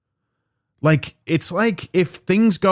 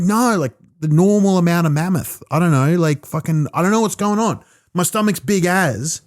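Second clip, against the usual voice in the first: higher-pitched, confused denial; baffled protest; 4 semitones higher than usual. Retold or imitated. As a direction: act out someone defending herself, bewildered. Acts out woman baffled, defensive.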